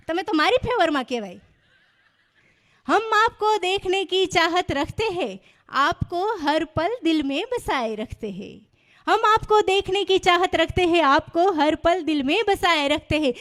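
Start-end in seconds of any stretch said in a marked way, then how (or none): 2.9-13.3 slow, drawn-out Urdu-style couplet recital; mock shayari recital. Comedian hamming up the organizer's poem for the audience, slow and grand. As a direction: savour every phrase like a mushaira poet.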